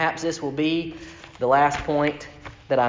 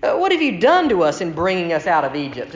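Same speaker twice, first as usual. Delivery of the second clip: higher, complaining Israelite whine; whining Israelites; 8 semitones higher than usual. Retold or imitated. The grumbling people complain to Moses in a higher whine. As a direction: whine at Moses like you're doomed. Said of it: "they said to Moses".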